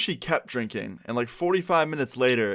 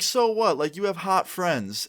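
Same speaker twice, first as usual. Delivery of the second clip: high squeal, then drawn out and slow; tipsy mom brushing off her son, pitched up; drunk mom teasing; 7 semitones higher, slower than usual. Retold or imitated.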